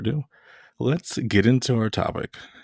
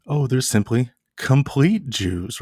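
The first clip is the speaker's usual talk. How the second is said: higher, slow, gushing mock take; mimicking Messianic claim; 4 semitones higher, slower than usual. Lecturer parodying Messianic teachers, higher and slower. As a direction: parody the sentimental reading of complete. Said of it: "the Messianic world today will say".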